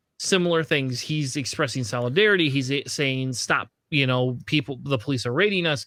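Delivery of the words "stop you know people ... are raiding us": usual speaking voice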